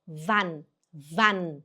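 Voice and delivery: "Wann" with a short vowel and sounded n; pronunciation demo. Shown as a demonstration. Teacher drills the word for learners, careful short "Wann". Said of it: "Atenção na pronúncia".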